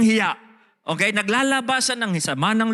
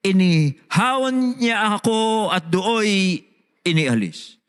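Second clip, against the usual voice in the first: solemn psalm reading, slowing at the end; scripture reading. Acted. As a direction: read the verse like a prayer. Reads psalm aloud. (taimtim na pagbasa ng salmo, bumabagal sa dulo)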